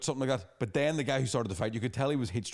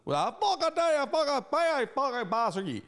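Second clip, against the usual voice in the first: mock drunk fury; 13 semitones higher than usual. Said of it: "the accoster".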